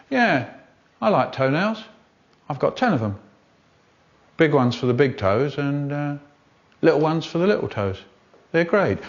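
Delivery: lightly voiced man in the street; chatty local interviewee, mildly put on; vox pop interviewee. A hint of a Hackney man being interviewed for the advert. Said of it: "We spoke to Jack Davis of Hackney".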